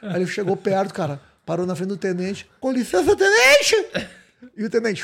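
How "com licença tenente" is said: laughing nervous recruit. Retold or imitated. Soldado nervoso, rindo.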